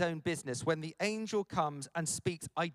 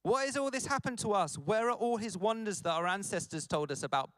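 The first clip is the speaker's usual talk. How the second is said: higher, aggrieved complaint; hacked off moaning; 3 semitones higher than usual. Acted. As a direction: moan at God, fed up. Gideon complaining to God.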